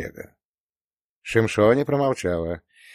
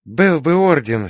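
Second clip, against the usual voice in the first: heartfelt; 5 semitones higher, 4 dB louder than usual. A narrator's reading. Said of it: "с чувством сказала".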